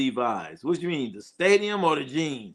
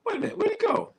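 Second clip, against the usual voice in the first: squeaky high mock panic, searching; a high, fretting cry of where'd he go; much faster than usual. Streamer hunting a vanished viewer comment, high and fretful.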